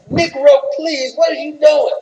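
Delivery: a hint of an annoyed wife telling him off; a touch of a wife scolding her husband on camera; scolding Michelle. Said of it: "giving him one of those damn looks like".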